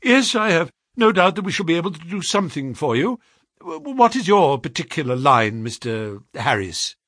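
lightly voiced rattled employer. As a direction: keep up business talk while shaken. Shaken Pinner interviews the visitors.

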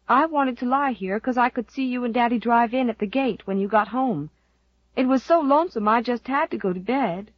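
put-on sleepy little boy explaining.

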